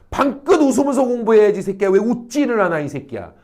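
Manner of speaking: hammed-up nagging parent; mock scolding. Mother demanding cheerful study from her child, mock scolding. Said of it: "이러고 다그치고 있는 거라는 거야".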